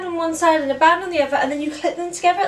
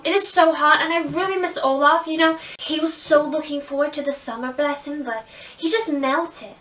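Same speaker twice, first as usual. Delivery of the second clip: put-on Anna's American accent. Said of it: "this bit I might say in the summer".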